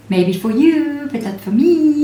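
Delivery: high, sassy retort; cheeky comeback. Retold or imitated.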